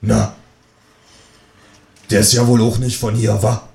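nosy Berlin neighbour voice; downstairs neighbour. Acted. Downstairs neighbour pries about the newcomer, in Berlin dialect. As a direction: ask as the Berlin woman downstairs. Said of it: "fragt sie".

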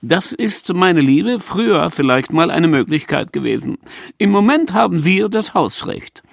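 high, smug triumphant voice; triumphant smile. Acted. Peach answers Renate, smug and triumphant. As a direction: gloat with a smile. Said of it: "lächelte triumphierend".

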